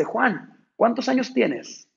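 put-on a ranch owner teasing his old worker; boss asking.

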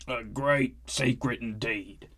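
slow, lightly dramatic; hushed repeat. Acted. Skivrin retrying his dramatic line to the newcomer, slow. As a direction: draw out the secret again.

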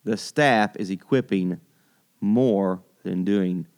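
slow, measured restatement in an everyday pitch; slow repeat. Real, not acted. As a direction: repeat it deliberately, spacing the words. Host repeats the reason more evenly.

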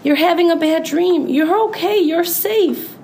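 high-pitched reassurance; reassuring. A narrator's reading. Gorilla tells Ruby she is safe after nightmare, reassuring.

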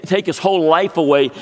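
ordinary delivery

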